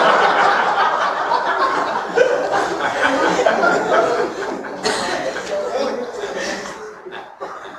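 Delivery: long unvoiced laughing fit; long breathy laugh. Real, not acted. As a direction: laugh out freely, no words.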